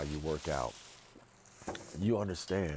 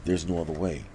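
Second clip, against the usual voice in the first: emphatic; 7 dB louder than usual. Real, not acted. Insisting, repeats himself.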